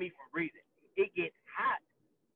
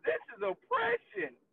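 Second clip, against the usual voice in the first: mocking whine; slower than usual. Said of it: "They talk about".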